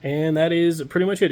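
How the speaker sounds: blocked nose from a cold; stuffy nose, under the weather; nasal sick voice. Real, not acted. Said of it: "my nasally ass voice because I am, uh, sick".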